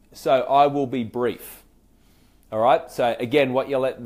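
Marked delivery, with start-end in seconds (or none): 0.1-1.6 slow and measured, every word placed; calm promise. Shown as a demonstration. Coach modelling the next line to a caller, slow and steady. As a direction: reassure them you won't take long. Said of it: "Next part could be something like this".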